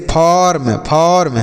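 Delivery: फॉर्म drawn out slowly on its vowel; slow teaching pronunciation of फॉर्म, vowel held; demonstrated vowel sound. Shown as a demonstration. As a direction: stretch the "a" sound before r in फॉर्म. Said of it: "वहाँ पर अ निकलेगा".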